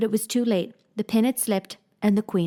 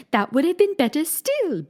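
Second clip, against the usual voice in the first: lightly voiced queen, insisting; White Queen; 8 semitones higher, 3 dB louder than usual. Queen to Alice, lightly voiced fussy queen.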